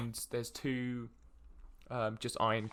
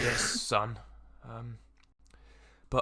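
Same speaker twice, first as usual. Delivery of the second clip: disdainful father; slower than usual. Acted. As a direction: answer your son coolly, haltingly. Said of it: "a bit disdain in his voice".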